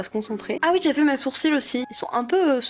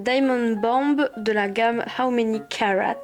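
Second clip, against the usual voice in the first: slow English product name with French accent. Real, not acted. Vlogger naming her highlighter to viewers, French-accented English. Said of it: "avec mon bel accent".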